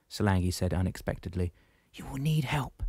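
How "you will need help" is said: Solangi's voice. Acted. Solangi speaks, voiced figure.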